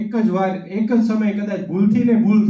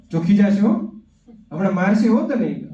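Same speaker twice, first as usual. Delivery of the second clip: mock threat to child. Mother warning her child at the gate, mild mock threat. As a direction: warn the child someone will scold. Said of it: "ઓલા બેન શું બોલ્યા હશે?".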